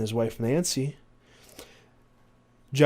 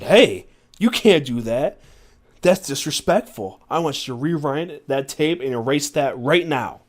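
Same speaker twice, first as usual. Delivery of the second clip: angry telling-off; 3 semitones higher, 6 dB louder than usual. Acted. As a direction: act out indignantly telling someone off. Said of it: "I was angry".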